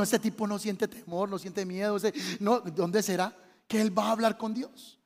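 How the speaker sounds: low, soft musing; hushed wondering aside. Retold or imitated. Congregant musing about the pastor, hushed wonder. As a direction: wonder to yourself under your breath.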